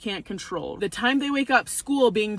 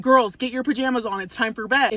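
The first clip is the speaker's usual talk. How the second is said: bossy command. Shown as a demonstration. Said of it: "instead of saying".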